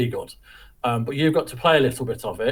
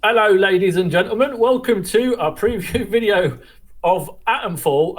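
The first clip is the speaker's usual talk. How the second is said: hammed-up English presenter accent, pitched higher; put-on English accent; 6 semitones higher, 4 dB louder than usual. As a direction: play the grand English host welcoming the audience. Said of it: "I don't know why I'm doing that".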